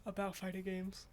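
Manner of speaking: talking through a yawn. Real, not acted. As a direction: say it mid-yawn, mouth stretched. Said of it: "Sorry, I'm yawning".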